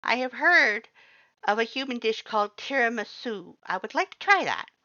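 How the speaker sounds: high, loud, eager skeleton voice; loud cheerful Papyrus. A narrator's reading. Papyrus welcomes the human to stay, loud high cheerful voice. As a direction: boom it out like a proud, cheerful skeleton.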